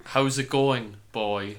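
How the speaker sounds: sample line in a Cork accent; mild Cork accent. Shown as a demonstration. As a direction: give a light Cork lilt. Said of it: "can you hit us with a Cork accent".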